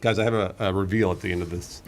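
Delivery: mush mouth from fake teeth; talking round fake teeth, mushy. Real, not acted. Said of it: "I sound weird and have mush mouth".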